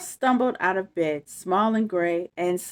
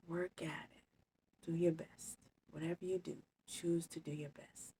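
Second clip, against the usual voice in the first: mean every word, gently. Real, not acted. Sincere goodbye affirmations to kids.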